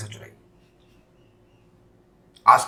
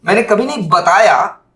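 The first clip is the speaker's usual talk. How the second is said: मैंने hit louder and higher; stress on मैंने; 4 semitones higher, 4 dB louder than usual. Shown as a demonstration. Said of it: "टोल्ड पे हमारा stress होगा".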